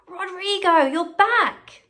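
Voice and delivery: put-on light old lady welcome; delighted old lady.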